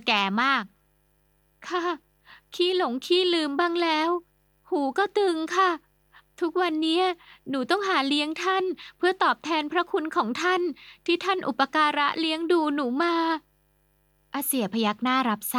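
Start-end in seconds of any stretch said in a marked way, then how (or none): 2.5-13.1 put-on higher, gentle young woman telling sad news; young girl voice. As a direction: voice her like a polite young bar girl.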